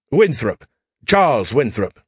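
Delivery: a hint of a suave Bond introduction; James Bond style. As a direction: introduce yourself like Bond, lightly done. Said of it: "he said it like Bond, James Bond".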